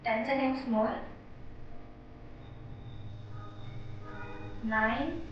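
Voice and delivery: calm, measured meditation guidance; unhurried meditation leader's voice; guided meditation. Real, not acted. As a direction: gently lead them through meditation with long pauses.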